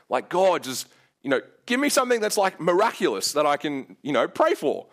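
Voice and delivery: half-joking frustrated bargaining with God; retold pleading. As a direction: plead with God for something bigger.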